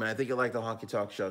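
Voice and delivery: a hint of Boston accent, quick; accidentally slipping into a Boston accent; slight Boston accent. Real, not acted. Host greeting a viewer, in a light Boston accent. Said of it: "I said it like I'm from Boston".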